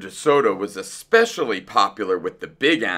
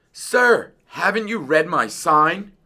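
shouting; 8 semitones higher than usual. A narrator's reading. Dentist mouse to unwanted fox patient, shouted. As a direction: call it down to a stranger outside. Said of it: "Doctor DeSoto shouted".

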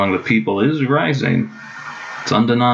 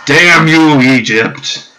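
hammed-up shout, higher and louder; mock furious curse; 5 semitones higher, 8 dB louder, much slower than usual. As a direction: shake your fist at Egypt in jest. Mock curse at rival nation.

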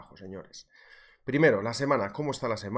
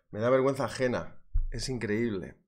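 ordinary talk, nothing marked

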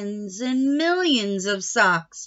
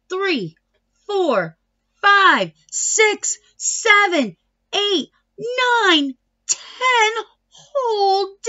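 building count; 8 semitones higher, slower than usual. A narrator's reading.

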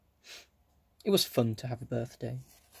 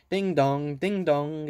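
clock voice; 3 semitones higher, 4 dB louder, slower than usual. Acted. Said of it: "it cried".

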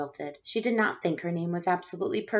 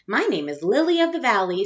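louder, proud announcement; 3 semitones higher, 6 dB louder than usual. Acted. Victoria proudly announcing her flower name, louder. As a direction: show off. Eager child.

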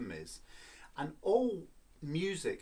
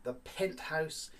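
high and slow; 3 semitones higher, slower than usual. Shown as a demonstration. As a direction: stretch out penthouse up high. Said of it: "This is the top".

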